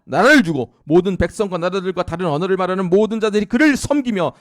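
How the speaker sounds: reading that climbs to a very loud, high proclamation; building scripture proclamation. Acted. Preacher reading Daniel to the congregation, building to a loud climax. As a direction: build from reading to a triumphant roar.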